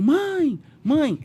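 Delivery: high calls of mom; calling anxiously. Retold or imitated. Son calling his silent mother on the phone, high and urgent. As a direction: call her back to the line.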